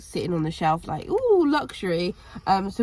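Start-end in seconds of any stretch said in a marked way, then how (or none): 1.1-2.1 excited gasp. Retold or imitated. Imagined shopper spotting luxury.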